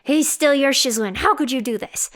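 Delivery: mock yell. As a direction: bellow it like a scandalized rival. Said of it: "Liu Qingge yells".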